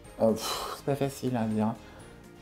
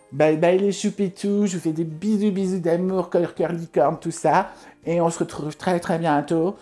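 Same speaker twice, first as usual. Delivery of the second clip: cutesy sign-off; 4 semitones higher than usual. Acted. Cutesy outro sign-off to followers.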